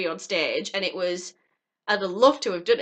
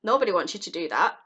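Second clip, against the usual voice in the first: inner critic voice; 2 semitones lower, faster than usual. Retold or imitated. Mimicking the negative inner voice telling viewers they can't. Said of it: "that voice in our head that says".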